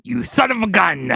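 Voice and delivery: loud, high-pitched playful outburst; mock outrage. Ribbing a co-host over his pick, mock outrage. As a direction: cry it out in mock indignation.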